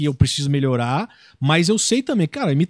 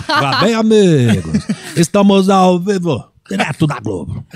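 slow, louder sportscaster voice; Galvão Bueno impression; 6 dB louder, slower than usual. Imitating the TV announcer for his wife, slow and loud. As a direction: drag out the announcer's opening. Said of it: "O Galvão Bueno".

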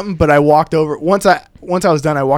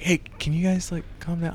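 polite hush request; 13 dB quieter than usual. Retold or imitated. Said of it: "and I'm just like".

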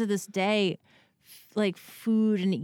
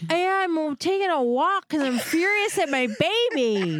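higher, laughing through the admission; laughing confession; 9 semitones higher than usual. Retold or imitated. Mom admitting to friend she's mad at her baby. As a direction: giggle it out, embarrassed.

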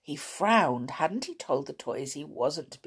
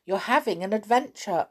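raised calling voice with mock drama; teasing shout; 7 semitones higher, 6 dB louder than usual. A narrator's reading. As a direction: call out as if across a pond. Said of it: "shouted Amelia".

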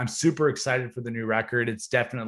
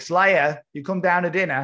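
a rough, hammed-up New Zealand accent, mum calling the kid to dinner; lightly put-on Kiwi mum calling down to dinner; a hint of a New Zealand accent, mum calling her kid Slayer; bad New Zealand accent; 4 semitones higher, 4 dB louder than usual. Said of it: "sorry for that bad accent".

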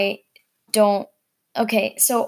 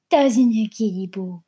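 talking sweetly to a kitty; pet talk. Real, not acted. Owner asking the cat to agree, cutesy pet talk.

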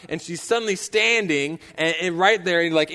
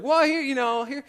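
scrambling high voice; 8 semitones higher than usual. Retold or imitated. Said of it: "I was like".

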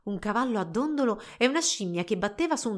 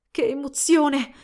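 high, loud, drawn-out excitement; thrilled; 5 semitones higher, 6 dB louder, slower than usual. A narrator's reading. Girls thrilled by their secret plan, excited. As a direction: gush with excitement, stretching the words.

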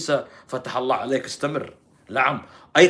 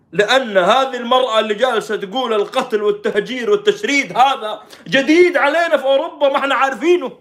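high, loud, indignant outcry; imitating a shocked lament; mock dismay; 9 semitones higher, 8 dB louder than usual. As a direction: build to a cry of disbelief. Echoes reporter's shock at Europe.

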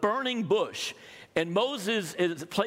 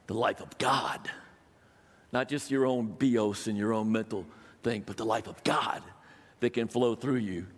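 hushed preaching; 7 semitones lower than usual. Real, not acted. Preacher's dramatic hushed point.

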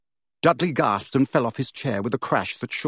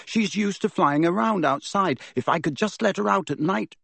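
put-on higher, earnest boyish voice; boy pleading; 7 semitones higher than usual. A narrator's reading. Harry pleads with his uncle, higher boyish voice. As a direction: plead your case reasonably. Harry explains about the owl.

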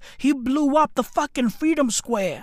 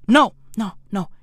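ordinary talk

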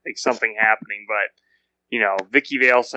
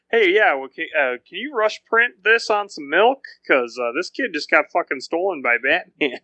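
higher, hurried mock phone request; joking caller; 4 semitones higher than usual. Caller asking the paper to print a missing kid on milk, mock frantic. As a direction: fire it off like a frantic tip line call. Acted phone call to newspaper.

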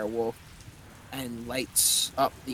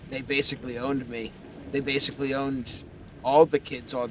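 gruff Cockney skull. Acted. Winston's skull tells his backstory.

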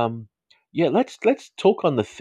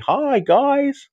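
bright high-pitched hello, much louder; excited greeting; 8 dB louder than usual. Real, not acted. Host greeting his regular viewers, excited and much louder. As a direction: greet your regulars with a squeal of joy.

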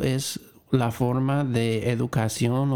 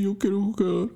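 put-on high little-kid reply; child's voice; 7 semitones higher than usual. Shown as a demonstration. The child agreeing to rejoin the game, in a high kid voice. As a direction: say it eagerly like a small child. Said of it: "Y dice que sí".

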